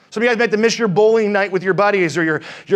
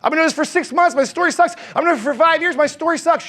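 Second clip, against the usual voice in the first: higher, complaining mock voice of a doubtful agent; whiny excuse-maker; 4 semitones higher than usual. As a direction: mimic the audience's lame excuses, mildly whiny. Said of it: "some of you guys go".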